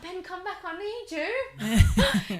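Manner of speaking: high, very slow laughing plea; mock plea. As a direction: beg him back, half laughing. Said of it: "And I was like".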